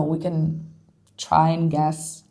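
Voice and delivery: talking through a yawn; sleepy yawn mid-sentence. Real, not acted. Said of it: "Sorry, I'm yawning a lot".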